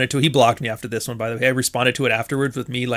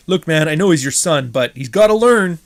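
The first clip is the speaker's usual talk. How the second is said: mock stern lecture; 3 semitones higher, 6 dB louder than usual. Pretend scolding the kid's parent.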